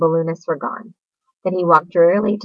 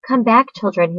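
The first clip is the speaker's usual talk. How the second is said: higher, louder call after the babies; 6 semitones higher, 4 dB louder than usual. A narrator's reading. Wilbur frantically calling the baby spiders back. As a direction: Wilbur calling his departing children back. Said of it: "he cried".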